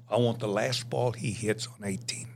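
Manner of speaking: a secret wish under the breath; whispered thought. Retold or imitated. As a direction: whisper it to yourself. Private thought about autograph ball.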